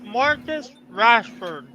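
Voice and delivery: talking with a chip in his mouth; mouth full. Real, not acted. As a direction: say the name around a mouthful of food. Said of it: "I had a chip in my mouth".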